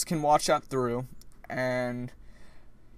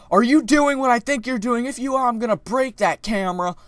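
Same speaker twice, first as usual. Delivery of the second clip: higher, louder angry imitation; mock screaming lady; 7 semitones higher, 4 dB louder than usual. Imitating the lady threatening to break the camera. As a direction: threaten like a furious old lady. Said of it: "she's literally screaming".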